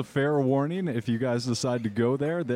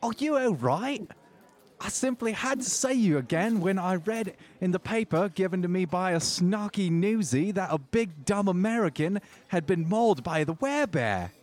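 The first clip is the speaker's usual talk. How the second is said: put-on high, dramatic Jersey-accented woman; 6 semitones higher than usual. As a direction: gush at him in a thick Jersey accent. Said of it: "a thick Jersey accent".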